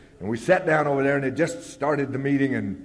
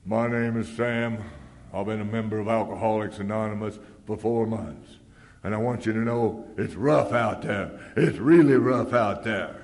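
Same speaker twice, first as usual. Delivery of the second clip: moping; 2 semitones lower than usual. Retold or imitated. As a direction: drag it out like a beaten man. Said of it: "comes moping up to the mic".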